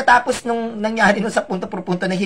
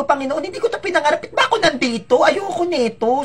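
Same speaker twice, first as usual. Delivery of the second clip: anxious self-prayer; 5 semitones higher than usual. Retold or imitated. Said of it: "nagsasabi ako sa sarili ko".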